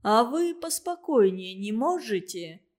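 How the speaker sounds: ordinary delivery, nothing marked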